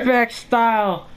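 high, drawn-out enthusiastic catchphrase. Shown as a demonstration. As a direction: belt out the catchphrase with enthusiasm, stretching it. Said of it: "I want you to say it enthusiastically".

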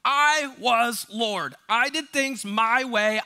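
slow, loud, self-important confession; confessing self-voice. Pretend. Congregation telling themselves who was Lord, mock proud confession. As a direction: voice the old proud self, drawn out. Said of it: "tell yourself who was Lord".

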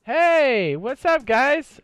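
cartoonish squeaky hey what's up guys; silly high greeting voice. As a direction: put on a goofy high voice to greet them. Greeting in a put-on voice.

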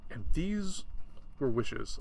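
first take, high on "these"; "these" lifted high, then dropping; high start. Shown as a demonstration. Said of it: "I guess it was more like this".

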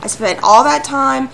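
loud, heated ranting, surging and easing; pissed off. Real, not acted. Gamer berating the little turd after wasted berries, pissed off. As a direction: rant at them in real anger. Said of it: "I'm so pissed off at you".

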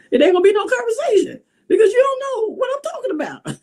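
high, fast words breaking into laughter; can't hold the laugh in while mocking; squealing with real laughter through the line. Real, not acted. Mocking his empty talk, laughing.

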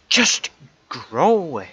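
loud, fed-up command at the plant; frustrated shout. Real, not acted. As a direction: bark it at the crop, out of patience. Yelling at the crop.

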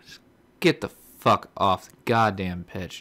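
slow, loud furious command; angry yell. Real, not acted. Gamer yelling at his player to get off the pitch, furious. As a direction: spit it at the useless player.

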